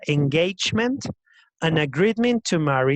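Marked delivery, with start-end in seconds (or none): 0.1-1.0 ENGAGEMENT said louder, as a model word; "engagement" pronounced loudly with a rising end; pronunciation demo. Shown as a demonstration. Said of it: "pronunciación de esa palabra".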